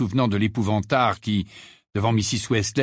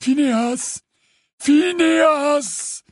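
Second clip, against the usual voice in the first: high, drawn-out call of a name; high-pitched summons, insistent; calling out to wake someone; 4 dB louder, much slower than usual. A narrator's reading. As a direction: call the sleeper, louder the second time. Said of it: "la voix de Dumbledore".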